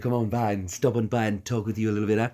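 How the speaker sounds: happy tone, quick patter; lightly voiced, cheerful Stewie; Stewie Griffin. Shown as a demonstration. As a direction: chat along fast and happily as a cartoon baby. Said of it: "a little bit of a happy tone into it for Stewie".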